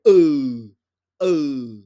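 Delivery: E grunted loud and throaty; E as a casual Vietnamese yes. Shown as a demonstration. Teacher shows how Vietnamese say yes, throaty grunt. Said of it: "pour dire ouais en vietnamien, on fait".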